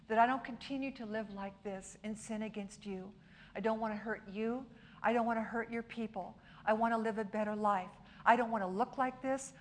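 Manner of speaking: preacher voicing a repentant sinner's prayer, softly; quiet penitent prayer. Voices a sinner's prayer to God.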